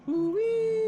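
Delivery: loud, very high "ooh-wee"; high yelled hail. Acted. Game master voices a PA hail, yelling high. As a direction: push a whooping call way up high. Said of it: "And it yells".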